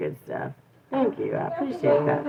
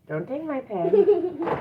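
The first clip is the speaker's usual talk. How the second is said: firm warning; 10 semitones higher, slower than usual. Real, not acted. Scolding toddler.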